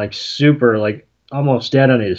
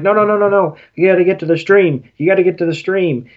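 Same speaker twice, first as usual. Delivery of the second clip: higher, fast, panicky pleading; mock-frantic begging to reach the stream; frantic Pikachu; 6 semitones higher, faster than usual. Pikachu frantically begging their friend to reach the stream, fast panicky voice. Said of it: "the Pikachu are frantic".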